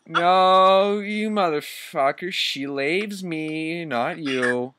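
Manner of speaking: high, slow theatrical mock shout. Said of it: "shouted Vampire".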